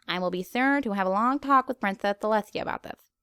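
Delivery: whispered aside; sly whispered promise. Real, not acted. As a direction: say it under your breath.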